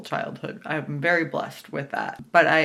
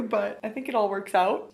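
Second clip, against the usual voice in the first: normal talking voice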